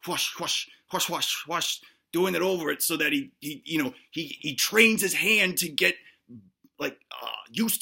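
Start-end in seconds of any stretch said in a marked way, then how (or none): 0.1-1.8 imitated whoosh. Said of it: "it's like".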